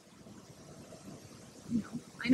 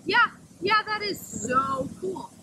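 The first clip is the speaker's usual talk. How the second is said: mock wide-eyed wonder; 5 semitones higher, 4 dB louder, slower than usual. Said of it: "I'll be like".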